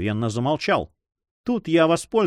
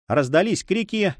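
ordinary delivery, nothing marked

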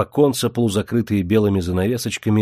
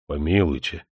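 put-on agitated old man; 4 semitones lower than usual. A narrator's reading. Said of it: "взволновался старик".

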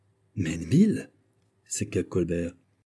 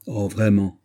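brightening with delight; 4 dB louder, slower than usual. Acted. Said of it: "dit Colbert en s'épanouissant".

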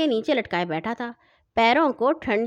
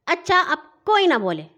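higher, louder call for silence; shouted order; 7 semitones higher, 4 dB louder than usual. A narrator's reading. Sister shouting at the children to hush, loud. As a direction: shout everyone down. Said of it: "باجی نے چیخ کر کہا".

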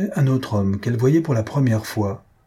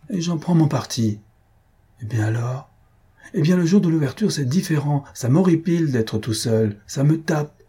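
higher-pitched resigned grumble; grumbling; 5 semitones higher than usual. Acted. Host protests at being left to dine alone, grumbling. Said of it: "ne grogne pas".

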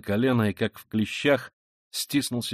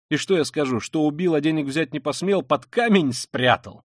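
raised, mocking self-accusation; caustic sneer; 4 semitones higher, 5 dB louder than usual. Killer mocking his own confession, caustically. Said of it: "прибавил он с едкой усмешкой".

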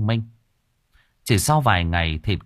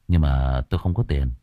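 low stubborn reply; defiant; 6 semitones lower than usual. Acted. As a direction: stonewall him. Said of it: "An trả lời giáo hoành".

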